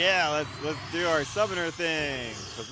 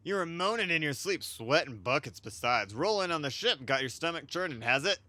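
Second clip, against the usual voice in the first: voiced sailor; 3 semitones higher than usual. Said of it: "I'm gonna try to voice over everybody".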